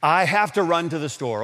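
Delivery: lightly hammed-up oops voice; mock exclamation. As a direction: playfully act out forgetting an ingredient. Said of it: "you'll hear something like this".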